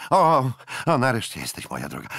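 loud eager greeting, dropping at the end; eager captain. A narrator's reading. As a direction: welcome her with hungry excitement. Jack greets the maid. (podekscytowany kapitan)

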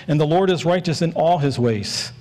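"all" given extra weight; stress on "all". Shown as a demonstration. Preacher reading a Psalm to the church, emphasis on "all". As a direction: read it out, leaning on "all". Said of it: "I'm gonna emphasize the word all".

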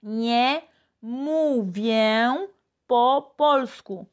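very slow, each word of "Nie mówię po polsku" given its own space; slow teacher demo; slow model phrase. Shown as a demonstration. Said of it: "hicimos la frase número tres".

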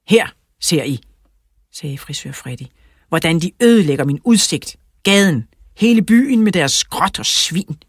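loud, mildly indignant grievance; indignant complaint. Acted. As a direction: complain loudly to officials about the neighbours' mess. Angry neighbour complains about mess.

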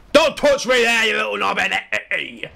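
high, loud, drawn-out shout; playful outraged holler; mock angry yell. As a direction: yell it at a game enemy, hammed-up. Yelling at an enemy in game.

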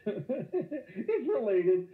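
drawn out slowly while laughing; laughing mock correction. Shown as a demonstration. Teacher mocking a student's wrong answer, slow and laughing.

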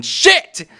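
loud, high yelp of frustration; sudden shouted swear; startled curse. Real, not acted. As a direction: blurt it out as you crash. Crashes mid Mario bit.

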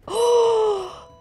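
loud, high cheer; real excited yay. Real, not acted. Seeing her Flareon, a loud high yay. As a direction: cheer with joy.

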